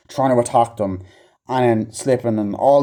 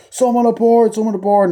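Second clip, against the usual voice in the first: much higher, louder call of alarm; mock shout; 10 semitones higher, 4 dB louder than usual. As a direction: yell it across the water. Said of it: "they're like".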